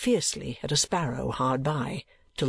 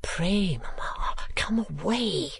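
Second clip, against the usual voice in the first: urgent whispered plea; hushed, pleading aside; 5 semitones higher, much slower than usual. A narrator's reading. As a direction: whisper it as a daughter coaxing her mother. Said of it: "whispered Kate".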